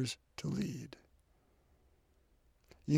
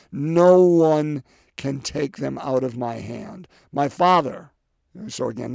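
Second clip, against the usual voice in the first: forceful scripture reading; 7 dB louder than usual. Acted.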